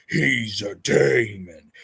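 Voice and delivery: slow mock rant. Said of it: "impression of him".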